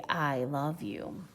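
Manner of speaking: soft, low and slow, each word clear; clear and kind. A narrator's reading. Brother telling his sister, soft and slow. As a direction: say it gently, like a boy finding his words. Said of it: "so clear and kind".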